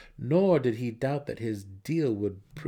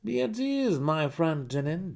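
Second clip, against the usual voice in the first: laughing; 9 semitones higher, 5 dB louder than usual. A narrator's reading. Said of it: "Jarlaxle laughed".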